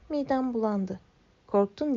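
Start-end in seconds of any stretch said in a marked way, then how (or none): 1.5-2.0 mock teasing. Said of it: "diye dalga geçti Nessie".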